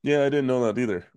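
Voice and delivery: talking with the hiccups. Real, not acted. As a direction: speak through hiccups. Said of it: "I just got the hiccups".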